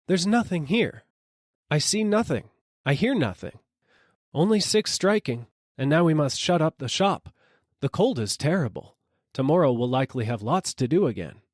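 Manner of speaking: wife telling her husband there's nobody; dismissive wife. A narrator's reading. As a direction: deny seeing anyone. Wife denies seeing.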